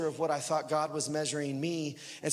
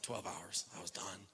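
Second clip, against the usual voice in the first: hushed answer; 9 semitones lower, 14 dB quieter than usual. Retold or imitated. Answering the Lord, retold.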